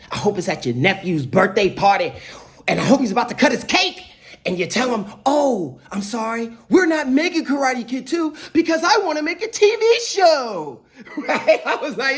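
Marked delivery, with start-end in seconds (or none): 0.1-10.8 mock tirade building higher; pissed. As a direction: wind up into a high, sarcastic finish. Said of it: "He was pissed".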